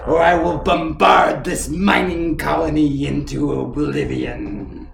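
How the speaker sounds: slow, hissing villain voice; sly sticky chameleon. Acted. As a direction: drawl it out like a smug reptile admiral. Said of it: "the sound of a chameleon empire voice".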